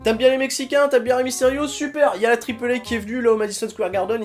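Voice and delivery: énumération forte et aiguë; enchaîner les arguments avec véhémence; coup de gueule. Real, not acted. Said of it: "peut-être un peu coup de gueule". (tirade emportée)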